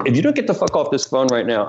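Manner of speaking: retold irritation. Threatening to hang up on caller.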